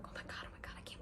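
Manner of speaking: excited hushed whisper. Retold or imitated. Whispering to mom at the gem show, breathless excitement. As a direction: whisper it so nobody overhears. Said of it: "whispering with my mom".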